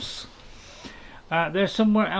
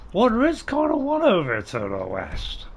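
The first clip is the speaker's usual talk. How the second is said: silly voice; 5 semitones higher than usual. Acted. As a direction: play it daft and sing-song. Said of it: "Notice I said that in a very silly voice there".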